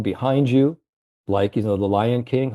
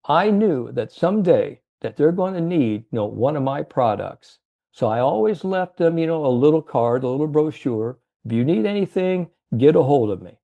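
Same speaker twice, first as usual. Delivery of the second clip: put-on old salesman's voice; 4 semitones higher than usual. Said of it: "how he talked to".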